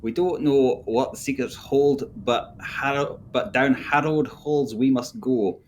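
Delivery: put-on thick Welsh accent. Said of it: "your accent was so thick".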